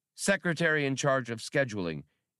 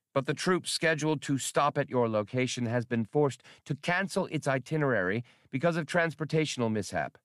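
raised, fast formal recorded message; reconstructed message; 5 semitones higher than usual. Acted. Played-back message addressed to the Vice President, formal. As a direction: read it like a stiff official transmission. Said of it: "the audio reconstruction began".

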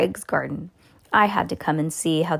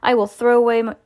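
eager promise; 5 semitones higher, 6 dB louder, faster than usual. A narrator's reading. Gregg promises under threat.

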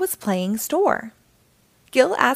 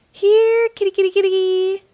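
high, loud sly coaxing call; cat burglar; 10 semitones higher, 6 dB louder than usual. Acted. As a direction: sweetly lure the kittens like a thief. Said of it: "said the cat burglar".

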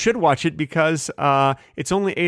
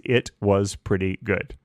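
slow pretty good; 6 semitones lower, slower than usual. Shown as a demonstration. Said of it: "the only word you can use".

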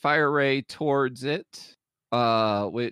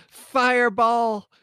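high, slow shouted spell name; yelled spell; 8 semitones higher, 5 dB louder, slower than usual. Acted. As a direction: bellow the spell name as a battle cry. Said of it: "and she yells".

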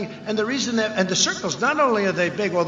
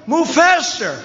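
high, slow whiny mock of an opponent; hammed-up mimic of Biden's question; 9 semitones higher, 6 dB louder, much slower than usual. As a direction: stretch it out, mocking the complaint. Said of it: "He said".

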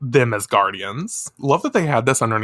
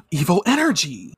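put-on a touch of startled anime girls; half-gasped cry of alarm; mock alarmed gasp; 4 semitones higher than usual. Girls startled by evil energy, mock alarm. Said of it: "Hataru and Chibiusa are like".

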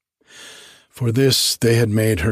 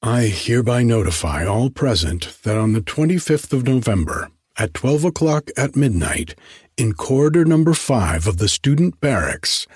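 student playing auctioneer at the table, mock whine; whining auctioneer; 3 semitones higher than usual. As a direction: whine out the sale like a bored auctioneer. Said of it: "began to whine out the following announcement".

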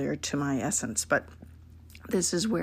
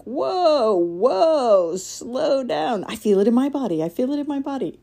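acting out a panicked body reaction, pitched up high; mock alarm; 9 semitones higher, 7 dB louder than usual. Voicing the overwhelmed empath.

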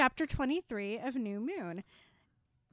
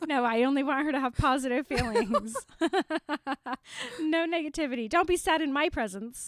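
host laughing and banning sad feelings; mock bossy cheer; 3 semitones higher, 6 dB louder than usual. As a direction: cheerfully forbid any sadness. Joking about banning sadness.

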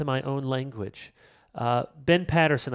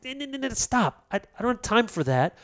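God's stern rebuke; 4 semitones higher than usual. Retold or imitated. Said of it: "And God is saying".

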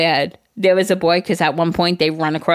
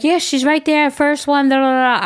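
higher, proud mock mom voice; bragging mom voice; 8 semitones higher than usual. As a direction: imitate a bragging band mom. Mimicking boastful mother.

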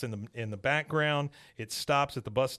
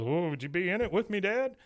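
high, rising plea to Dad; son's mock-earnest question; Hank pleading; 7 semitones higher than usual. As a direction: ask hopefully, voice climbing. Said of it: "and he goes".

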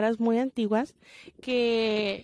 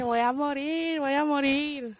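raised, hammed-up dying panic; mock panic; 4 semitones higher, slower than usual. Teen imitating her own panic about her period, hammed-up. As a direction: play a scared girl sure she's dying. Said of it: "Yo acá, como que".

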